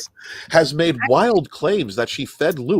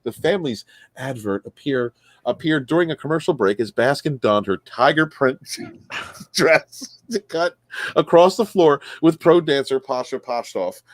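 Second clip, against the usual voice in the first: reading a news story aloud with punched key words. Acted. Host reading a missing-husband news story to co-hosts, newsreader delivery. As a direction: read the article out like a casual newscaster.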